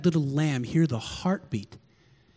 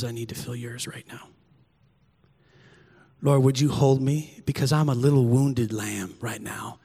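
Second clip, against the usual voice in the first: soft, low, pleading prayer; hushed prayer; 6 semitones lower, 3 dB quieter than usual. Retold or imitated. Pastor retelling to church his night prayer, hushed and pleading. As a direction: pray softly like a wounded lamb.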